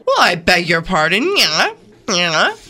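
affronted Minnesota accent, a touch put-on. Questioner affronted by the salesman's outburst, Minnesota accent. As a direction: take mild offence in a Minnesota accent. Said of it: "that was your Minnesota accent".

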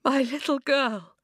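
sobbed. A narrator's reading. Father scoops up his daughter, sobbed. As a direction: choke it out, overcome. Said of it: "he sobbed".

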